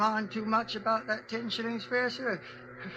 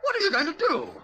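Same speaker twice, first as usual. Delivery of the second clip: loud, high-pitched alarm; frightened, raised voice; panicked; 6 semitones higher, 6 dB louder, faster than usual. Acted. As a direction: cry out in fear at gunpoint. Driver threatened at gunpoint.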